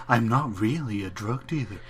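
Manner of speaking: lightly mimicking an actor's odd cadence; mock the stilted TV warning delivery; a hint of stilted PSA actor; weird cadence. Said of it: "He's got such a weird cadence".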